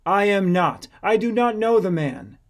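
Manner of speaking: insistent denial; emphatic denial. Acted. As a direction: deny it hotly, under oath. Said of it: "Peter denied it with an oath".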